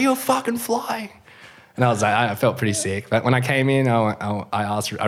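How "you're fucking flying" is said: much higher, slow, through a laugh; laughing hype. Retold or imitated. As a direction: cheer him on while laughing. Other surfer hyping him up.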